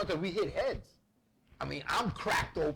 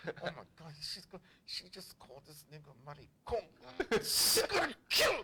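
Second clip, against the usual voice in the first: trying not to laugh. Retold or imitated. Sibling watching mom scold brother, imitated suppressed laugh. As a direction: imitate stifling a laugh under your breath. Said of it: "I'm trying not to laugh".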